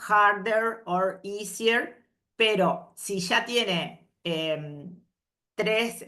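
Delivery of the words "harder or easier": harder or easier langzaam gelezen; slow model reading. Shown as a demonstration. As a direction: spel elk woord voor de klas. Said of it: "así como decíamos acá".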